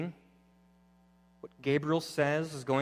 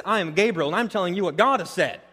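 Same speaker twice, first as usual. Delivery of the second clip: loud, raised, firm stress on "I"; emphatic retort, "I" punched; 4 semitones higher, 5 dB louder than usual. Acted. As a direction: declare it with authority, hitting "I". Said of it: "sort of your emphatic".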